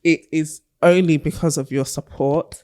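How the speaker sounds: measured, mock-solemn thank-you speech; Oscar acceptance speech. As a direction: address the audience like an award winner. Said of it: "Not you doing your Oscar".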